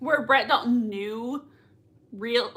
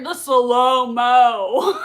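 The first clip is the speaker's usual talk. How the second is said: laughing gush; 7 dB louder, much slower than usual. Real, not acted. Fan gushing at slow-motion scene.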